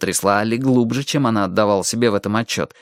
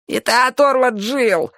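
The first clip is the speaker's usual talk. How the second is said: thin, very high frightened squeak; weak squeak; 13 semitones higher, slower than usual. A narrator's reading. Skinny one excuses himself to the boss, squeaking weakly. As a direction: squeak it out slowly, much higher. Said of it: "слабо пискнул Тощий".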